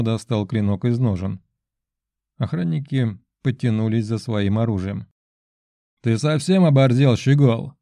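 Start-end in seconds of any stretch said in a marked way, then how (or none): 6.1-7.7 loud, rough bark at the intruder. Acted. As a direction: snap it out like a thug. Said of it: "рявкнул охранник".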